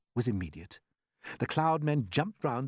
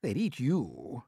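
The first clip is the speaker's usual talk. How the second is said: grinning tease; slower than usual. Acted.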